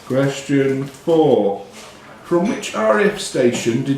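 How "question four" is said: very slow, drawn-out question number; quiz question announcement. Acted. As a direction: stretch it out like a quizmaster.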